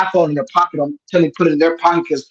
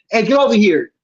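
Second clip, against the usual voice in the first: higher-pitched mock call to a friend; mild retold yell; 5 semitones higher than usual. Calling a friend down the beach, mild yell. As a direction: call out, without real volume. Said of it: "I yell for him, like".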